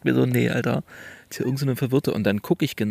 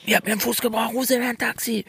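confused woman; 11 semitones higher, faster than usual. Retold or imitated. Confused woman demands a taxi.

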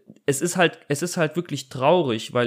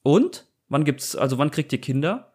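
nosy question. Retold or imitated. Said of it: "Und dann kommt ja das Nächste".

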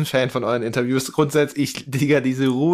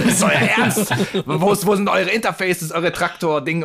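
incredulous, laughing; 3 semitones higher, slower than usual. Retold or imitated. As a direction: act out their disbelief with a laugh. Quoting the engineers' disbelief.

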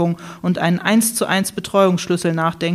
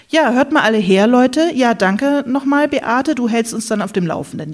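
host calling for attention; 4 semitones higher than usual. Acted. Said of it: "Er räusperte sich laut".

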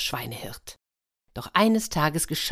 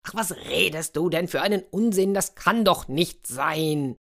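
exasperated ruler. Acted. Ruler rejects demand in exasperation.

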